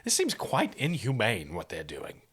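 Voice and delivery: lightly voiced hesitant, proper gentleman; a hint of fussy, uneasy gentleman; nervous gentleman. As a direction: stammer out a timid objection. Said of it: "swallows nervously and, and says".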